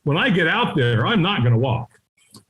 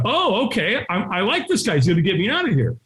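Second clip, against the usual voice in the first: pitched-up, pleasantly won-over reaction; mock relief; 4 semitones higher than usual. Hiding man warming to the helper, mock relieved. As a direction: sound taken in by the offer.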